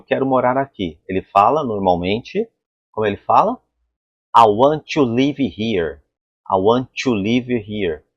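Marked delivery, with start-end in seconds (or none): 4.4-6.0 put-on slow Brazilian-accented English, "live" as "leevi"; Portuguese-sounding learner English, drawn out; strong Brazilian accent. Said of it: "aportuguesado, né, um sotaque forte". 6.5-8.0 slow learner's English, heavily Brazilian; Portuguese-flavoured "want to" as "wan-tchu"; strong Brazilian accent. Acted. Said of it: "aportuguesado, né, um sotaque forte".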